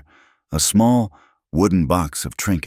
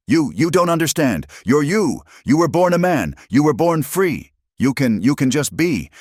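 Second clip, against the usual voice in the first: high, tearful, desperate voice; a woman breaking down over a cruel word; distraught young woman; 11 semitones higher than usual. Acted. Alina tells Eli what the men called her, high and distraught.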